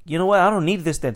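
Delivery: high, loud mock indignation; retold freak-out. Customer told to go and freaking out, mock indignation. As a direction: act out a fed-up customer storming off. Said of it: "He's still freaking out".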